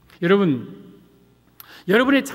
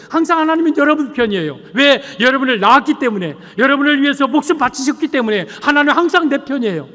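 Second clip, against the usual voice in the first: impassioned preaching; 5 semitones higher, 4 dB louder than usual. Real, not acted. Preaches at raised force.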